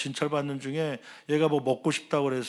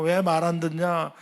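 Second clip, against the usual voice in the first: scolding; 3 semitones higher than usual. Retold or imitated. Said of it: "막 혼내고".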